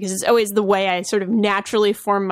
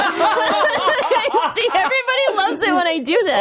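lightly voiced New England accent, laughing through it; a hint of his New England accent on request; 9 semitones higher, slower than usual. Shown as a demonstration. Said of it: "Can you talk in it for a bit?".

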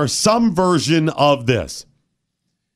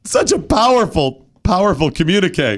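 mock tearful; 4 semitones higher than usual. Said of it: "My tears are as real as Alyssa Milano's".

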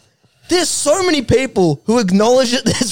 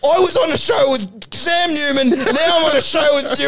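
mock fed-up outburst; 5 semitones higher than usual. The speaker storming off.

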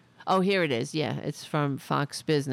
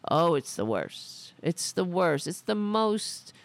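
mock Trump rant; 4 semitones higher than usual. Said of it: "he said".

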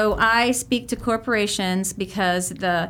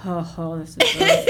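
delighted surprise; 3 semitones lower than usual. Retold or imitated. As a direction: act delighted, voice leaping up. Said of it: "some of them were like".

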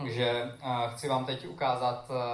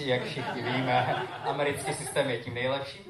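sarcastic. Shown as a demonstration. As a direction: say it with an ironic smile. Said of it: "Sarcastic tone, please".

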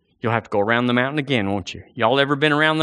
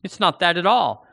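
ordinary delivery

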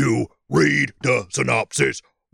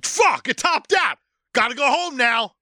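mock whiny Brian; 10 semitones higher than usual. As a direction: whine like the car's a dead friend. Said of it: "it's just like".

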